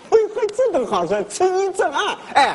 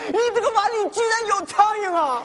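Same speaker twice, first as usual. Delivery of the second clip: mock outrage; 6 semitones higher than usual. Freeloader fakes outrage over fly.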